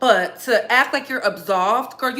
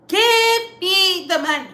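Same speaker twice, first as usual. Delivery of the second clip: demanding; 8 semitones higher, 4 dB louder than usual. Pretend. Shouting demand for money.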